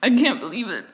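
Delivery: high, hammed-up fake sobbing voice; theatrical fake mourning; mock crying. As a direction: overplay the crocodile tears, pitched high. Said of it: "He's really going like".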